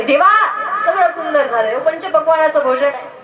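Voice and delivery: an earnest acted plea to God; pleading with God. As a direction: call out to God, then implore. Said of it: "माझ्या देवाला विनवणी करावी".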